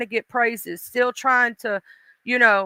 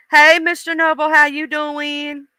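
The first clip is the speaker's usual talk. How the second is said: higher, drawn-out hello; greeting; 4 semitones higher than usual. Real, not acted. Host greeting a viewer who just joined, drawn-out greeting. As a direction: sing out a slow, friendly greeting.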